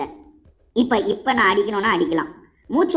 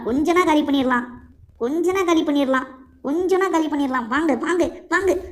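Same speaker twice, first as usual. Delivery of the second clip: rising excitement; 6 semitones higher than usual. Real, not acted. About to finish off enemy.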